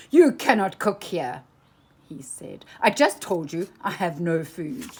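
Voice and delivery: put-on loud, flustered old miser. A narrator's reading. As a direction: scold her in a panic. Scrooge jumping up and down.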